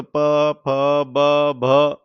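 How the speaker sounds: प, फ, ब, भ made with the lips meeting, one by one; lip consonant demo. Shown as a demonstration. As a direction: sound out प, फ, ब, भ as separate held syllables. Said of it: "ओंठों को जब मिलाते हैं". (होंठ मिलाकर प, फ, ब, भ का अलग-अलग उच्चारण)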